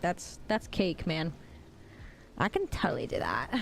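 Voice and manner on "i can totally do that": whispered. Real, not acted. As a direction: whisper it close to the mic. Boasting she can do voice.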